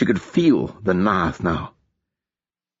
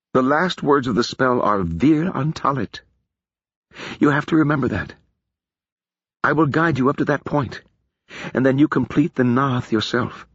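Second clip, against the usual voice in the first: put-on solemn warning to a young woman; lightly voiced wise mage; Feor's voice; 5 semitones higher than usual. Feor voiced.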